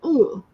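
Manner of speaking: a short high "Ooh"; reenacted ooh. Guest showing she said ooh, lightly high. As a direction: show the little ooh you made. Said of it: "I said".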